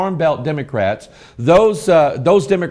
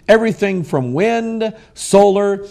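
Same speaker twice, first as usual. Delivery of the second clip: ordinary talk, nothing marked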